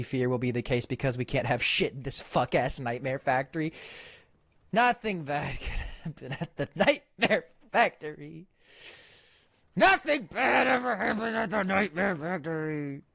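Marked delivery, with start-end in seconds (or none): 4.7-13.0 higher, slow mock cheerful lilt; sarcastic sing-song. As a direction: sing it out like an ironic nursery rhyme. Sarcastic repeat of the line.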